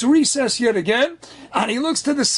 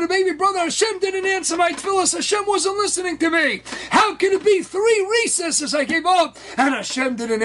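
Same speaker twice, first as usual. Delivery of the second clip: high, impassioned acted protest; crying complaint; 5 semitones higher than usual. Crying boy asks rebbe why his prayers failed, upset complaint. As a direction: plead like an upset child wronged, pitched up. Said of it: "and he's crying".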